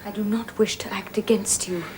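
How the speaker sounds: whisper. Acted. Jane answers Rochester warily.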